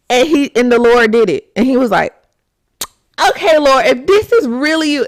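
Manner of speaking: high, loud, giggling doubtful plea; amused mock-skeptical bargaining; laughing Gideon. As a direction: plead with God through laughter. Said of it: "He said".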